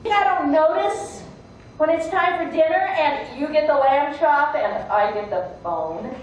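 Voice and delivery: indignant, aggrieved dog; mildly heated, acted scolding; resentful rant. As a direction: pile up bitter grievances. Dog airs grievances against man.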